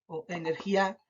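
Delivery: "energía" mis-stressed as energi-Á; stress on last syllable. Shown as a demonstration. Teacher testing another wrong option, "energía" stressed on final A. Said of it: "identificar dónde se carga la voz".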